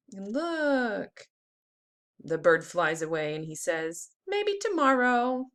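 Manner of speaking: put-on lively storybook read-aloud for kids; teacher reading a worm book to the class; reading to children. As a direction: read it like circle time, bright and clear. Teacher reads picture book aloud.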